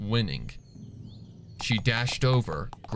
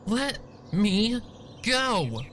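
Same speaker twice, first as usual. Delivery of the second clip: much higher, desperate mock shout; 11 semitones higher, much slower than usual. Sweetie Belle, squirming in Fluttershy's grip, shouts. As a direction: yell to be let go. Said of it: "she shouted".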